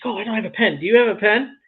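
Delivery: put-on high, sweet girlish voice asking for a pen; playfully imitating a young woman; mimicking a cute girl. Retelling the rep asking for a pen, high sweet voice. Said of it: "she's like".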